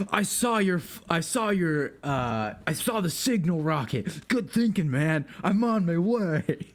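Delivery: lightly voiced, eager battle comrade; eager ally replying. Ally answers the signal rocket, lightly acted eagerness.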